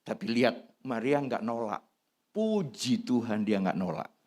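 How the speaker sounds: normal talking voice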